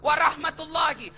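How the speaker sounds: rising into loud shouted blessings; preacher builds the greeting to a full cry; fervent full salam. Shown as a demonstration. Loud, building fervent salam. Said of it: "Tiga isi dalam doa".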